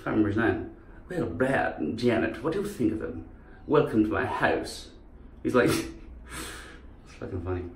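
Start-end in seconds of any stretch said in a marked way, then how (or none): 1.1-4.9 softer camp English host; Frank-N-Furter. Acted. Host welcoming a young couple, camp English impression. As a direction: play the camp musical host, softly. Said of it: "guy who plays Frankenfurter in the Rocky Horror".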